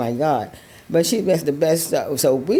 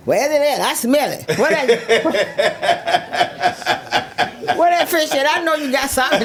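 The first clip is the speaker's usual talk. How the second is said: eager friend; 9 semitones higher than usual. Retold or imitated. Friend sniffing out leftover fish.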